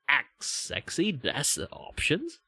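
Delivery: slow, drawn-out mock-seductive question; mock sexy. Answering people who say they act sexy, mock sexy. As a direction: stretch it out slowly, playfully sultry. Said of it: "trying to act sexy".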